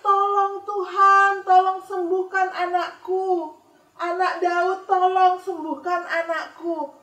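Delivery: high, loud, sung-out plea for help; crying out. Acted. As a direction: wail it slowly like a desperate mother. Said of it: "dia teriak-teriak". (ibu berteriak memohon kepada Yesus, melengking keras)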